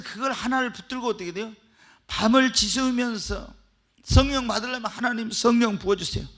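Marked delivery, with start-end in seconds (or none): 4.9-6.3 raised, pleading call for the Spirit; earnest all-night prayer. Shown as a demonstration. Pastor acting out a believer pleading all night, earnest cry. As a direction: plead upward like a believer praying through the night. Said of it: "밤새내 성령을 모달로 기도해야지".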